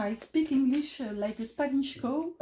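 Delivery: English with a French accent; real French accent on English words. Real, not acted. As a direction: speak halting English like a French speaker. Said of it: "excusez mon accent".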